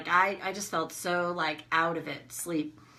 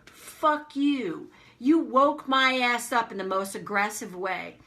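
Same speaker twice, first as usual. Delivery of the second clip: retold angry retort; 2 semitones higher, slower than usual. Woken wife swearing at husband, retold with moderate anger. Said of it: "Stop yelling at me".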